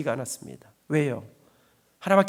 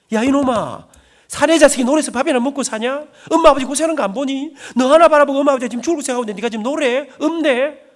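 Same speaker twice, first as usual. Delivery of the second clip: higher and louder, a furious father scolding his son; angry father shouting; 6 semitones higher, 6 dB louder than usual. Retold or imitated. Father berating his son over music, furious shout. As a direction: roar it down at the boy like an outraged father.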